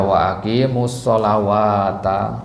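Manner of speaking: wa aqimus SHOLAWATA with a long "waa"; wrong reading SHOLAWATA. Shown as a demonstration. Teacher warns against this reading, SHOLAWATA with waw. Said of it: "jangan dibaca".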